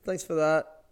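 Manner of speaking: loud, high, slow sarcastic thanks; sarcastic retort. Retold or imitated. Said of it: "And I was like".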